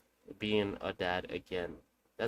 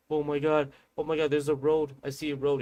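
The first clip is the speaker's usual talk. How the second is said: amazed at the road; 4 semitones higher, 4 dB louder than usual. Retold or imitated. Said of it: "and he was like".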